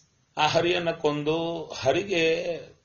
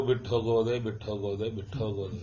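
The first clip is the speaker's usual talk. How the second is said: low repeated refrain, fading softer; murmured japa demonstration, trailing away; japa-like repetition; 3 semitones lower, 3 dB quieter, faster than usual. Shown as a demonstration. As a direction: repeat it like a japa, letting it sink lower and quieter. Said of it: "ಶುರು ಮಾಡಿ ಜಪ".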